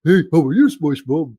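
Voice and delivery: nasal cartoon impression; Squidward. Coach demonstrating nasal voice, cartoon character impression. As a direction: push a cartoon greeting through the nose. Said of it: "Sounds like Squidward".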